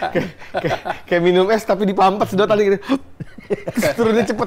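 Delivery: high, loud, giggly delivery; amused and breaking up; talking through laughter. Real, not acted. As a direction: struggle to get the comparison out while laughing. Laughing through a comic comparison.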